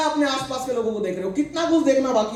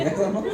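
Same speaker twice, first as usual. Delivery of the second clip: mock sulky groan; 6 semitones lower, 4 dB quieter than usual. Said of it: "मुंह ऐसा हो जाता है".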